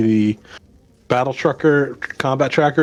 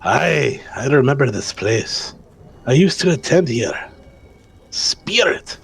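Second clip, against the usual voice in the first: lightly voiced Scrooge, talking to himself; muttering Scrooge. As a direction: grumble to yourself as a hint of old Scrooge. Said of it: "who mutters to himself".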